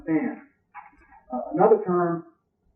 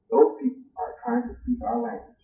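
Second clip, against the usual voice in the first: mock Roman disdain; 8 semitones higher, 3 dB quieter than usual. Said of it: "They say the same thing about you coming".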